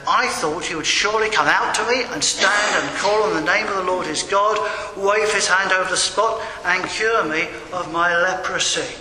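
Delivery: acting out a touch of outrage; indignant complaint. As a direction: list the thwarted expectations with energy.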